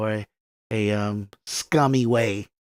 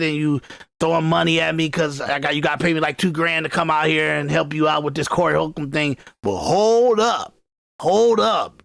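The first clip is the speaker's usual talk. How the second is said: mock offended woman; 3 semitones higher than usual. Impersonating the woman scolding Anton.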